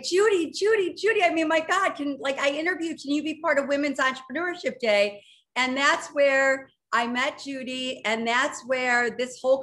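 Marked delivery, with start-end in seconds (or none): 0.0-5.2 higher, excited retold pleading; eager pleading. Founder begging Judy to join, excitedly. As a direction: rush the plea with starstruck eagerness. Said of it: "I was like".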